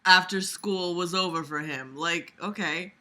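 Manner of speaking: projected read-aloud voice; story narration. A narrator's reading. Vlogger reading a story aloud to listeners, projected narration. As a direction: read the fic out clearly.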